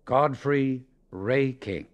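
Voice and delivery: usual speaking voice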